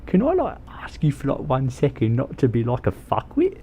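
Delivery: odd character voice; funny put-on voice. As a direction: say it in a silly put-on voice. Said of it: "that's not a good voice".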